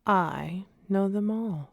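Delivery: lightly voiced young boy showing off; boastful boy Mowgli. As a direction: show off like a proud child.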